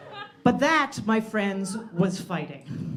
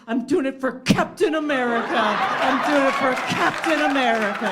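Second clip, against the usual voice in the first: proud declaration; 3 semitones higher, 4 dB louder than usual. Retold or imitated. Unmasked guy proudly declares.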